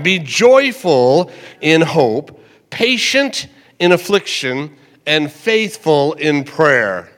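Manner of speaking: deliberate repeated recitation; slow scripture reading again. Shown as a demonstration. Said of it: "One more time".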